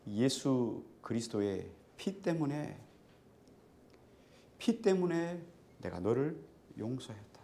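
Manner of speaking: slow, measured pronouncement; God's voice retold slowly and deliberately; solemn divine message. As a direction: let each phrase stand, with long pauses. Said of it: "하나님의 아주 강력한 메시지로".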